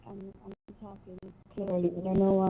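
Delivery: muffled, like through a wall. Real, not acted. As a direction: sound muffled and far off. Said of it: "You're speaking with a muffled voice".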